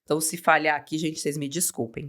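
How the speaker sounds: hoarse reedy voice, cracking; cracked reedy voice. Real, not acted. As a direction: talk through a cracked, reedy voice. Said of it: "como uma pata com essa voz horrível".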